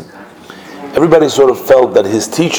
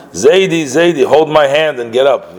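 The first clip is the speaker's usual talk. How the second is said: lightly voiced toddler, higher pitched; a hint of a small child pleading; little boy; 6 semitones higher than usual. Little grandson begging grandfather to get up, lightly voiced child.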